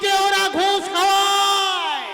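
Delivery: impassioned stage declamation. Acted. An actor denouncing gangsters who bribe even gods, declaiming. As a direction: ring out the rhetorical questions, building at the end. Opening theatrical speech of indignation.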